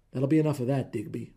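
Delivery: loud barked order; husband barking at his rival. Acted. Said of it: "Rooney barked".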